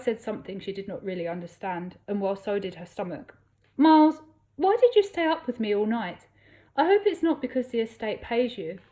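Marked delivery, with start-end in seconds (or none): 3.8-8.8 much higher, louder anxious question; lightly voiced tipsy woman seeking reassurance; tipsy plea. A narrator's reading. Tipsy Millie pleading with Miles.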